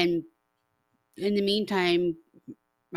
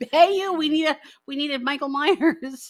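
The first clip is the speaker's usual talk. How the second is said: loud, higher mock call-out; calling someone over; 8 semitones higher, 9 dB louder than usual. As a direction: playfully holler like crew recruiting a passer-by. Acts out crew calling someone over.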